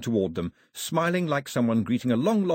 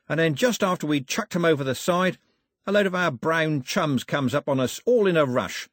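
higher-pitched, jaunty villain spinning his yarn; boastful rogue sailor; 6 semitones higher than usual. Acted. Cox tells Daphne how he became king, breezily boastful villain. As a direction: brag breezily in a rough sailor's voice.

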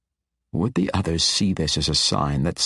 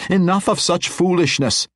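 high, louder reprimand; stern warning; 12 semitones higher, 4 dB louder than usual. A narrator's reading. Matron warning the wizard, stern. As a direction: end this now. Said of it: "Zirith warned".

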